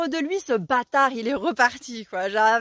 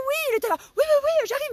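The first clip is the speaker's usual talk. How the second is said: high shouted answer from afar; called back reply; 13 semitones higher, faster than usual. Retold or imitated. The neighbour calling back from his house, raised voice. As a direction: shout back that you're coming.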